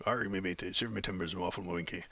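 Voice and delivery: lightly voiced stage pirate; hint of a pirate accent. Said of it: "the talk like a pirate that we're used to".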